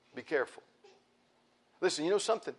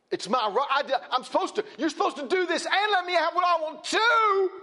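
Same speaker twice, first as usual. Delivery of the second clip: high, loud mock whine breaking into laughter; mocking entitled voice; 14 semitones higher, 5 dB louder than usual. Preacher mocking entitled people, high laughing whine. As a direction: laugh while aping a selfish demand. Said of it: "almost like".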